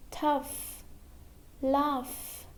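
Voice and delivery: "tough" and "laugh" ending in an F sound; "tough", "laugh", each closed on a clear F. Shown as a demonstration. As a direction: say "tough" as tuff and "laugh" as laff. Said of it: "like an F".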